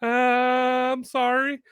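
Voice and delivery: high, slow, timid sorry; meekly apologize, voice small; sheepish apology. Retold or imitated. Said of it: "I was just like".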